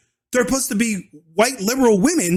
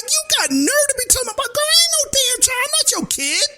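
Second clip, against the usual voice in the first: mock indignant white lady.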